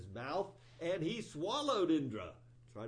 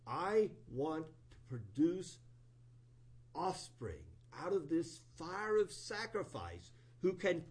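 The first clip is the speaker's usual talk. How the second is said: fierce invocation; 3 semitones higher, 4 dB louder than usual. Retold or imitated. Twasta chanting over the fire to raise a demon, loud and ceremonial. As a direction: intone it like a priest summoning vengeance.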